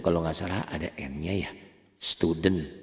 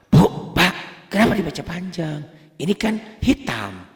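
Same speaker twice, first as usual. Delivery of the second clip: mock student question; 10 semitones higher, 5 dB louder than usual. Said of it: "student asks teacher".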